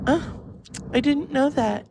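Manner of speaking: very high-pitched mock innocence; clueless coworker. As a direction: imitate someone blankly learning something new. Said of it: "And she went".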